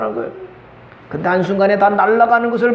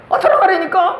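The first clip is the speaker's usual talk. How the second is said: much higher, exasperated push; exasperated insistence; 10 semitones higher than usual. Retold or imitated. Preacher daring the daughter again, exasperated and high. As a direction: snap it out, fed up.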